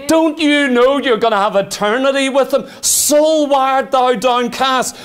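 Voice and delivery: commanding my soul. Acted. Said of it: "I stand by myself and say".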